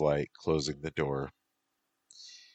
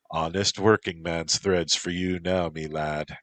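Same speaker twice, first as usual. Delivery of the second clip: put-on Irish accent. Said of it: "in an Irish accent".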